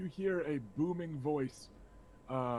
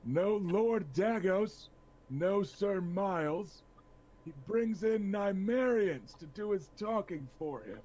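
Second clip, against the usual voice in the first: scornful lord; 6 semitones higher than usual. Acted. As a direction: sneer down at the knights. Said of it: "He says".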